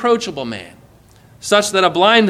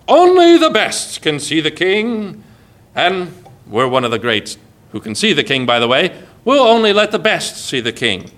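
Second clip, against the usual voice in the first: lightly hammed-up pride in being chosen; smug disciples. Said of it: "the disciples thought".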